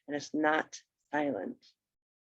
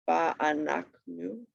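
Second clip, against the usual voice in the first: "Va'anachnu" slow but more connected; syllables joined; much slower than usual. Shown as a demonstration. Teacher repeating the example, "Va'anachnu" slowly joined up. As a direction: say "Va'anachnu" as one measured word. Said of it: "kind of where the, um, accent is".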